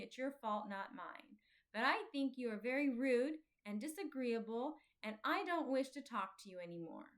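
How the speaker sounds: put-on a touch of a huffy, offended boy; cold dismissal, lightly voiced; sulky anger. Offended boy tells Faithful off, mildly huffy. Talkative sulks off angrily.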